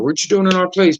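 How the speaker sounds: re-enacted indignant call-out; territorial challenge. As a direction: challenge intruders on your turf. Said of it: "you get real territorial".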